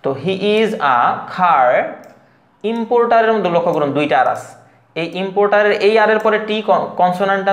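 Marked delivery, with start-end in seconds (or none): 0.2-1.7 slow "he is a car" with "car" as khaa; "he is a car", article as ah, puffed k; aspirated k. Shown as a demonstration. Teacher building the correct sentence, "car" with aspirated k. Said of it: "কটাকে খ বললে হয় খার".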